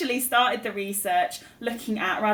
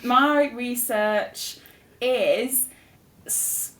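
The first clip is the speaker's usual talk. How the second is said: slow, drawn-out start with pauses; halting; much slower than usual. Real, not acted. Student asked about her research, halting. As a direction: stall between the words, searching for the title.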